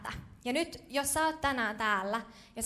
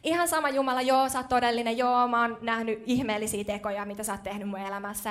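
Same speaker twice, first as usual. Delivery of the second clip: louder, offhand "okei, ihan sama Jumala"; mock dismissive believer; 6 dB louder than usual. Preacher mimics a believer brushing off God, mock dismissive. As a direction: shrug God off, half-hearted and loud. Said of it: "Ja sit sä oot silleen".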